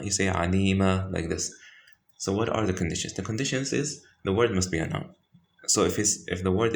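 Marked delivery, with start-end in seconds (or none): 0.3-1.1 "alima" ending on a long open aa; stopping form. Shown as a demonstration. Teacher showing how to stop on alima, stopping form. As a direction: drop the n and stretch the last a of "alima". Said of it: "if you're gonna stop".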